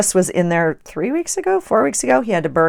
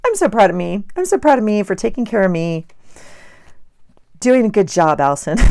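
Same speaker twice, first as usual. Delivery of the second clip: put-on childlike voice; 3 semitones higher than usual. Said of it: "I sound like I'm four".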